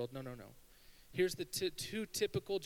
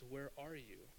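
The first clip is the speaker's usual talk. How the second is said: hushed, gentle question; soft searching call; 9 dB quieter, slower than usual. Retold or imitated. Preacher as God looking for Adam, soft searching call. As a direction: imitate a quiet search for someone missing.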